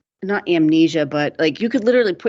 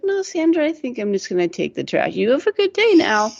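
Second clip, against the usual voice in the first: amused neighbour; 6 semitones higher than usual. Retold or imitated. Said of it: "He's like".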